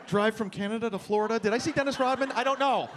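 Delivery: lightly voiced confused detective; hungover Columbo. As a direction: puzzle it out like a groggy detective. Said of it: "You're like a hungover Columbo going".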